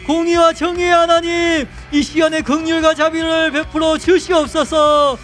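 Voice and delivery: loud prayer building to a high, sustained cry; fervent prayer. Real, not acted. Pastor leading repentance prayer to God, loud and impassioned. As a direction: plead with God at full force, phrase endings held.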